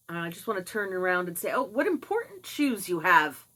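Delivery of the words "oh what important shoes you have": sarcastic, exaggerated compliment; put-on impressed tone, swooping pitch; mock admiring. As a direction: gush with fake awe at a stranger. Imagined sarcastic remark to shoe wearer.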